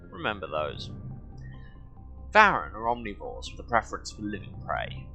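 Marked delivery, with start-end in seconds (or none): 2.3-5.1 measured documentary-style read-aloud. Acted. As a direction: read it out like an encyclopedia entry. Reads game codex aloud.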